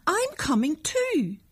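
put-on high, slow, drawn-out girl's call. A narrator's reading. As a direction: announce it across the noise, stretched out. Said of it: "shouted Annette".

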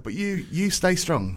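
soft, slow words of support; tender encouragement. Retold or imitated. Consoling an upset girl from work, tenderly. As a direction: retell it gently, drawn out with care.

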